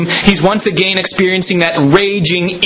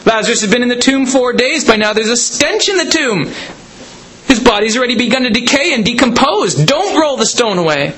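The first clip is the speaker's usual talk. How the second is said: a higher-pitched, lightly voiced Martha protesting; Martha objecting; 6 semitones higher than usual.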